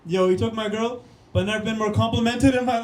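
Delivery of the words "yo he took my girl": ordinary talk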